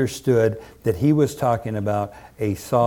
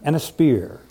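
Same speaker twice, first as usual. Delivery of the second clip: mock shout; 5 semitones higher than usual. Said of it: "David shouted in reply".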